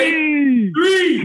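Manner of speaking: high, loud excited countdown call; tense whispered countdown. Real, not acted. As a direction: shout the count out, high and bright. Group countdown to sign off.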